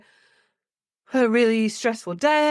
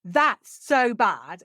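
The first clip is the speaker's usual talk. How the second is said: slow, higher sympathetic exclamation; matching their distress; 5 semitones higher, much slower than usual. Shown as a demonstration. A parent mirroring a stressed child's upset, slow and high. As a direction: stretch it out to meet their upset. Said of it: "use your voice into".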